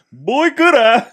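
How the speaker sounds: high, loud, hammed-up glee; cartoonish burst of delight; mock excited. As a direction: play it as a giddy yes. Listener acts out his reaction.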